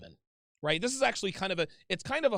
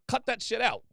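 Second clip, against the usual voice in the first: raised voice; 4 semitones higher than usual. Retold or imitated. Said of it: "Like, raise your voice".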